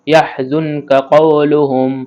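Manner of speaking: ইয়াহজুনকা কওলুহুম read slowly and evenly; slow model reading. Shown as a demonstration. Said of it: "teacher models again".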